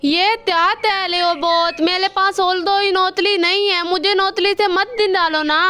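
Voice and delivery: lisped, "अथा दो तल" for "अच्छा तो सर"; lisping crow. Acted. Kalu crow to the doctor, lisping after the surgery. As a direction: say "थाता" with a childlike lisp. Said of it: "अब तुम्हारी जुबान तोतलाती है।".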